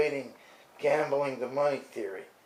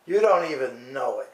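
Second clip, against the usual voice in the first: repeated louder for emphasis; 6 dB louder than usual. Shown as a demonstration. Scolding the TV host, repeating it louder. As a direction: hit it harder the second time. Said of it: "and you don't even know it".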